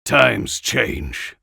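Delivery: with finality. Acted. Jack ending the argument with Anna, with finality. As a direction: close the matter flatly, no room to argue. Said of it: "Jack said with finality".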